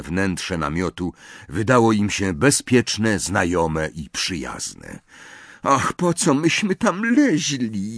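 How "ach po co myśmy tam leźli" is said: slow, high-pitched groaning lament; regretful moan. A narrator's reading. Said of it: "jęknęła Hermiona". (przeciągły jęk żalu)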